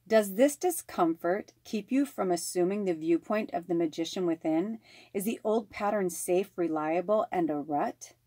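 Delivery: calm, measured oracle reading; card reading. Acted. Reading the reversed card meaning to viewers, calm and measured. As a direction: read the reversed meaning like guidance.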